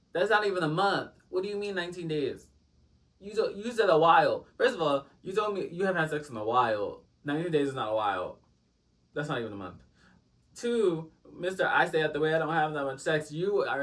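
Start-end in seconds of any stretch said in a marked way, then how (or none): 0.1-11.1 raised, indignant voice calling out the lie; loud outrage. Retold or imitated. Scolding the date for hiding his past, loud and indignant. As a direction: blast him for the nineteen days.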